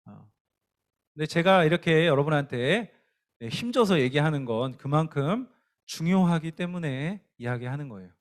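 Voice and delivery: usual speaking voice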